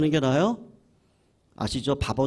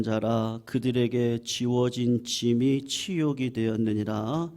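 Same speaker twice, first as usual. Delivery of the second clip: slow, level-pitched reading aloud; scripture reading. Real, not acted. Pastor reads scripture to the congregation in a solemn monotone. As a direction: read it in an even, measured monotone.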